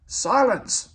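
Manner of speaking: sharp, high, loud command; snapped. A narrator's reading. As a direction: bark it to cut them off. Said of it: "snapped the Fat Controller".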